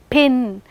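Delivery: "pin" with a puff of air after the p; aspirated p. Shown as a demonstration. Teacher giving an example, pin with aspirated p. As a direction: release the p of "pin" with breath. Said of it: "with aspiration".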